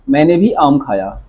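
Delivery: "मैंने भी" पर ज़ोर; stress on भी. Shown as a demonstration. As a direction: subject को उभारते हुए "मैंने भी". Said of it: "यहाँ पे सब्जेक्ट पे जोर है". ("मैंने भी" को दबाकर बोलें)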